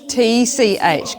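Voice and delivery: slow letter by letter T C H; teacher spelling out the ending of switch. Shown as a demonstration. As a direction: spell each letter clearly. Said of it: "How are we gonna spell".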